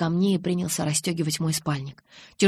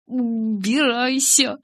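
slow, shaking command through chattering teeth; shivering order; 6 semitones higher, much slower than usual. A narrator's reading. Bella orders Jacob away, voice shaking with cold. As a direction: order him away while trembling with cold. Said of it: "опять приказала ему я".

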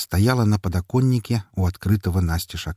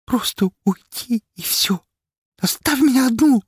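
anger breaking through. Acted. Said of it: "в её голосе прорезалась злость". (высоко, со злостью, к концу громко)

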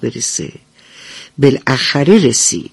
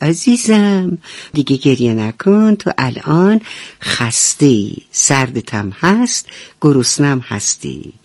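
lower, soothing mother duck voice; tender mother; 3 semitones lower than usual. Acted. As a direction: comfort the tired chick gently. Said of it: "اونو نوازش کرد". (مادر اردک با لحن مهربان و آرام)

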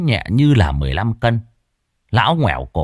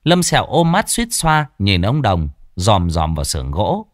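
ordinary delivery, nothing marked

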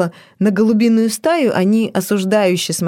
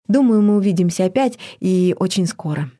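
confident. Acted. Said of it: "убеждённо сказала Ева".

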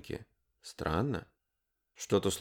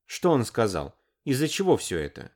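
ordinary delivery, nothing marked

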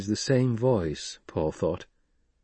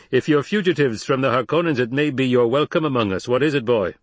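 lightly voiced desert leader, a little raised; tall Fremen leader; 4 semitones higher, 4 dB louder than usual. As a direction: lightly play a challenging tribal chief.

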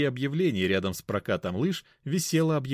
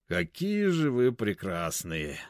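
put-on slow drunken gush; tipsy gushing; slower than usual. Narrator pretending drunk, gushing over the couple. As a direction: gush sloppily. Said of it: "в пьяной улыбке".

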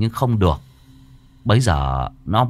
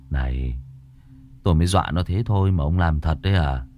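lower, quick disbelieving question; lightly voiced young master; 4 semitones lower than usual. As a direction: ask in mild shock. (giọng thầy trẻ hơi trầm, ngỡ ngàng)

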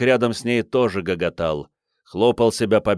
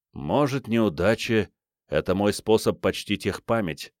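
wistful. Acted. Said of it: "с тоской сказал он". (с тоской, тихо)

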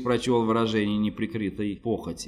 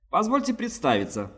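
higher, fussy merchant voice; fat merchant voice; 9 semitones higher than usual. A narrator's reading. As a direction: play a pompous plump trader. Fat man introduces himself.

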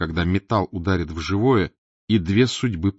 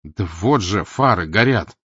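indignant; 4 dB louder than usual. Acted. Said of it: "возмутился Николас".

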